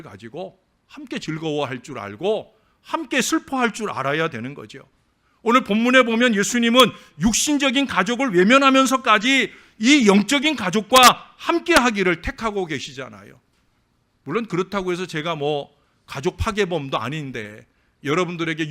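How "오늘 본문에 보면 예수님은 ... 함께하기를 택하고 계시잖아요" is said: preaching. Acted. Preaching on the text.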